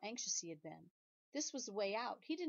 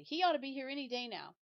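anxious protest; 7 semitones higher, 8 dB louder than usual. Acted. Mat protests about father.

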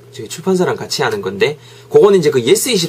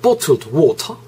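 British accent attempt; much slower than usual. Shown as a demonstration. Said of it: "영국식 브리티시 액센트".

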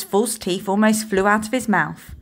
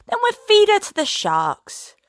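menacing threat; 13 semitones higher, 4 dB louder than usual. Acted. Captain threatens with sharks.

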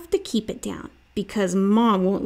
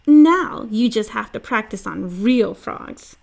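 louder, bossy playful sister; 4 dB louder than usual. Acted. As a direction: tease and boss him. Sister voiced in story.

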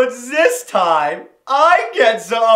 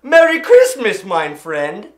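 put-on calling out a greeting in a German accent; hearty German-accented call; retold yell; 5 semitones lower, 3 dB louder, slower than usual. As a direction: hail someone loudly, retelling it. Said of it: "is I yell out".

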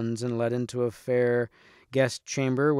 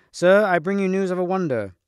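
raised, louder herald-like call; excited announcement; 6 semitones higher, 6 dB louder than usual. A narrator's reading. Squire bringing the king news of a wonder, excited announcement. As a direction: announce the marvel high and loud.

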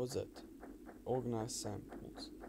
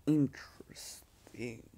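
whisper; slower than usual. Real, not acted. Whispered comment on the game.

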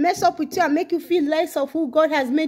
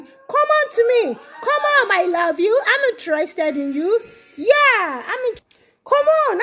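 the Lord pleading; 2 semitones higher than usual. Acted. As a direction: plead like a loving God calling his child, voice cracking. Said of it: "through my voice is saying".

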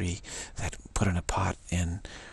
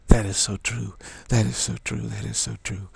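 emphatic agreement; 3 dB louder than usual. Real, not acted.

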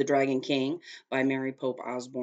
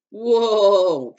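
surprised whoa; 6 semitones higher, 12 dB louder than usual. Acted. Cart lurches suddenly.

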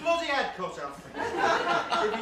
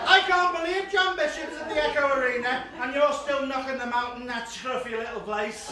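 mock high voice; 4 semitones higher, 6 dB louder than usual. Reading the same text again.

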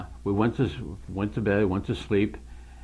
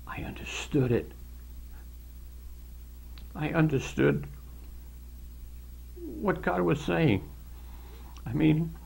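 tearful, half-whispered and high; overwhelmed, fighting back tears; choked up crying; 6 semitones higher than usual. Real, not acted. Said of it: "I'm blubbering like an idiot".

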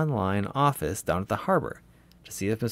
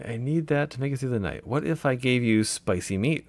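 lightly voiced duck; a hint of a squeaky duck; squeaky rubber duck. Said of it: "can you do a duck voice?".

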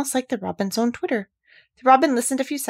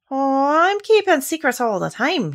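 good-humoured; 7 semitones higher, 5 dB louder than usual. A narrator's reading. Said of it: "answered quite good-humouredly".

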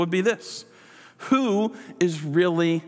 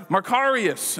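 higher-pitched salutation; congratulatory greeting; 5 semitones higher, slower than usual. Acted. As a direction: hail someone with congratulations. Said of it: "It's a way of saying, "Congratulations".

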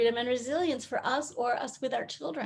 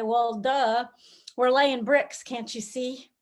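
a mildly irritated, dismissive brush-off; mock annoyance at an obvious question; annoyed worker; 2 semitones lower, slower than usual. Worker interrupted at his bricks, a touch annoyed. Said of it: "might just be a little annoyed".

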